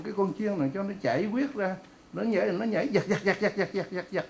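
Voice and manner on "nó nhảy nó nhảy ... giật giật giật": staccato, repeated jerks in the voice; imitated jerking. Preacher showing the slaughtered lamb's convulsions, staccato imitation. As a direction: mimic twitching with evenly chopped, repeated words.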